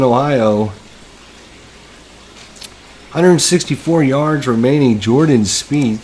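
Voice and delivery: hushed TV golf commentary; golf commentator. Acted. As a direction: call the game like a broadcast golf announcer. Mock golf broadcast of game.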